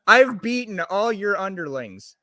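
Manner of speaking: promo line, half-serious; wrestling promo. Pretend. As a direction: announce it like a wrestler. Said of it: "we're gonna do a promo".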